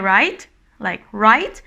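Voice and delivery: "right" with an upward lift; high questioning tone. Shown as a demonstration. Checking whether someone is tired, rising "right". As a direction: end "right" on a rise. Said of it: "is the sound of high tone".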